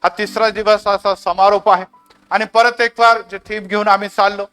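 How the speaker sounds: earnest, flowing prayer to God; fervent prayer. Real, not acted. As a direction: lead the congregation in heartfelt closing prayer. Leads the closing prayer.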